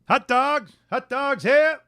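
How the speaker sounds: stadium vendor hawking. Retold or imitated. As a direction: call out like a ballpark hot dog seller. Imitating stadium vendor calling.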